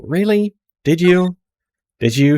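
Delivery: high, disbelieving repeated question; incredulous. Real, not acted. Player doubting the hero's fond memories, incredulous. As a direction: push back in mock disbelief.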